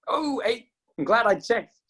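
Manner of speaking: real surprise, pitch leaping up; surprised. Real, not acted. Teacher noticing only minutes are left, genuinely surprised. Sees the time is nearly up.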